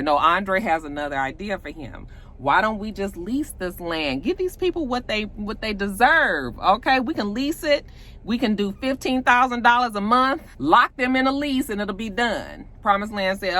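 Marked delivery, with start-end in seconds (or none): 2.4-12.7 higher, insistent sales pitch; eager pitch. Retold or imitated. Andre pitches leasing to Promised Land, eager and insistent. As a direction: push the idea eagerly, pitched up.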